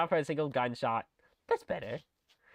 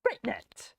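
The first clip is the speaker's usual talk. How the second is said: excited shout; 8 semitones higher, 4 dB quieter than usual. Real, not acted. Excited call out.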